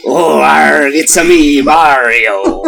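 lightly voiced Mario; a playful Mario accent; Mario impression. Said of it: "How about Mario".

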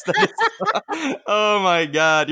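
high, slow laughing squeal; laughing in disbelief. Real, not acted. Laughing at baby photo.

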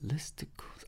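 low energy. Real, not acted. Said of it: "I'm kinda low energy right now".

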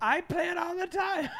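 high nerdy giggle voice. Acted. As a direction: gush like a nerd. Nerd voice again.

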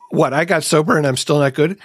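mildly aggrieved, challenging question; accusatory. Retold or imitated. Newly sober wife challenging her husband, mildly accusatory. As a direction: imitate a partner taking offence. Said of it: "that sort of accusatory".

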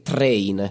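"train" with a plain t and rolled Italian r; Italian dub pronunciation. Shown as a demonstration. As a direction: say "train" for Thrain, Italian-style. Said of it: "we don't have the th sound".

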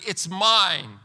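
firm fall on "mine"; emphatic. Retold or imitated. Pastor voicing God's claim, a touch of emphasis on "mine". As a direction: set "mine" down firmly, no doubt. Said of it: "And God says emphatically".

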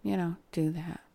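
soft, half-hearted plug; unenthusiastic. Real, not acted. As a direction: trail off softly with little enthusiasm. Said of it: "should sound a little more enthusiastic".

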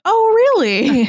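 high fake surprised gasp; mock surprise. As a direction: put on a surprised face. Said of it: "doing that surprise face of".

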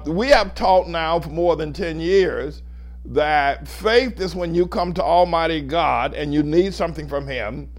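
ordinary talk

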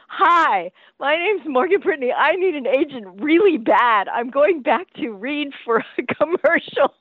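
retold urgent self-introduction; eager plea. Young actress begging an agent to take her, eager.

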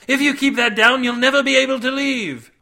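loud, high-pitched shout; shouted warning. A narrator's reading. Cade warns Davy not to swallow, shouting. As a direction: yell it urgently to stop him. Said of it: "Cade shouted".

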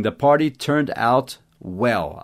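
very slow, careful English example; slow model sentence. Shown as a demonstration. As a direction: lay each word out slowly for students. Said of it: "Se você falar assim". (exemplo em inglês bem devagar)

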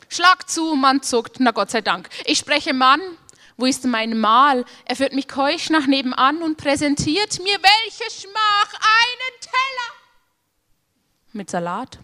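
dramatic recital. Acted. Comic medieval poem recital.

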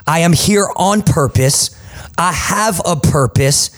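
slow, rising, declaiming confession over music; stirring, slow motivational creed; recited affirmation. Shown as a demonstration. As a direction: proclaim each line slowly for them to repeat. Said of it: "just repeat after me".

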